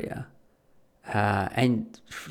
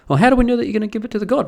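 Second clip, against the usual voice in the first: rapid, higher, louder challenge; suspicious; 8 semitones higher, 6 dB louder, much faster than usual. Acted. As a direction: fire off a suspicious question fast. Suspicious farmer questioning grifter.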